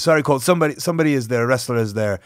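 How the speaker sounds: badly imitated accented English; awful foreign accent. Wrestler telling Colt that a seat is taken, in an awful imitated accent. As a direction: lightly put on a non-native English accent. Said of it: "sorry for my awful accent".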